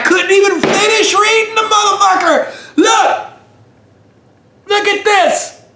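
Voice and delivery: laughing through the words; can barely get it out for laughing. Real, not acted. Cracks up reading label.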